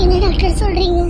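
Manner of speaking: sudden loud, stunned question; loud, startled cry of shock; shocked disbelief. Acted. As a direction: blurt it out in disbelief. Shocked at pregnancy news.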